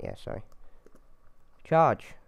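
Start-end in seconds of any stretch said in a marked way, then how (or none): 1.6-2.1 battle order shout. Pretend. Cha-, oh, right.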